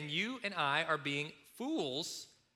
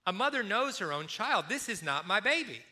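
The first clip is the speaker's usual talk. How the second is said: raised, insistent mother's protest; distressed mother; 4 semitones higher, 3 dB louder than usual. Retold or imitated. Mother in court claiming her baby, raised and insistent. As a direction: plead it loudly, sure she knows her child. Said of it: "she says".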